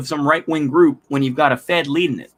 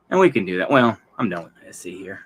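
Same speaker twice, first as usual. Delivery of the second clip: doubled audio echo; echo from second device; 6 semitones lower than usual. Real, not acted. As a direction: voice echoing from another device. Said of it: "sorry for the double audio here".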